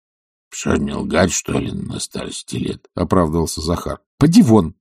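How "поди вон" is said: louder, higher "Поди вон!"; angry order repeated. A narrator's reading. Oblomov sending Zakhar out again, louder and angrier. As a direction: raise the voice and send him out. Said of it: "повторил Илья Ильич".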